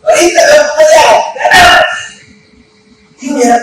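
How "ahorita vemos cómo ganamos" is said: imagined glee. Retold or imitated. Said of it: "hubiera dicho".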